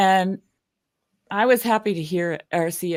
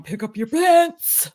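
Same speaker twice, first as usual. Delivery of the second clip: high, loud, stretched-out holler from above; mock divine bellow, drawn out; booming sky-daddy God; 10 semitones higher, 5 dB louder, slower than usual. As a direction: boom it down slowly like a scolding deity. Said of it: "like, booming down".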